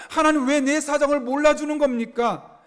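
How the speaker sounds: acted lament, demanding to know why; pleading complaint. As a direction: plead upward as one who feels ignored. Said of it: "이렇게 하소연하고 있는 것이죠".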